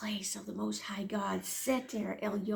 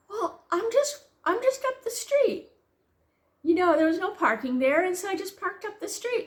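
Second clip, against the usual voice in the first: much higher-pitched imitation of a son; imitated innocent son; 8 semitones higher than usual. Son explains where he parked, voiced high and innocent. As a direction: lift the voice high for his casual excuse.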